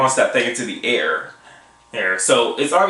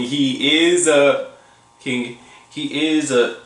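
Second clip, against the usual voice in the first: halting, stumbling over words; stuttering. Real, not acted. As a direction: trip over the start of each phrase. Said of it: "I know I'm stuttering a lot".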